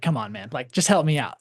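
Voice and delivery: mildly exasperated plea, rising in pitch; acted-out frustrated customer; annoyed. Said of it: "you're kind of annoyed".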